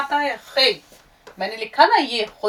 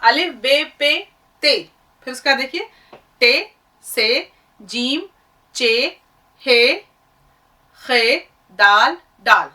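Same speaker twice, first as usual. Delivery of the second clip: reciting letters; 2 semitones higher, 4 dB louder than usual. Shown as a demonstration. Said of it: "ध्यान दीजिएगा जरा".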